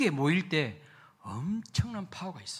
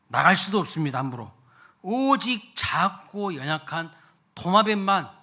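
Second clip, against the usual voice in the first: loud, rising sermon delivery, pressing each point; full-force preaching; 2 semitones higher, 6 dB louder than usual. Acted. (힘있게 외치는 설교)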